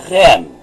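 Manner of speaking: "rem" as one isolated, falling syllable; syllable read aloud. Shown as a demonstration. Teacher reading a syllable for students, "rem" sounded out alone. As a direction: sound out "rem" by itself with a clear initial consonant. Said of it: "se vamos ler".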